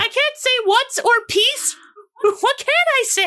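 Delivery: put-on very high little-kid voice; innocently curious, squeaky child; Tiffany. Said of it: "Tiffany's just looking at you like".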